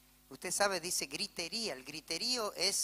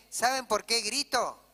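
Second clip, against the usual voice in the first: louder, slowed rhetorical question; raised voice; 6 semitones higher, 7 dB louder than usual. Acted. Preacher asks the church why he shouts, loud. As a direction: lean in and demand an answer.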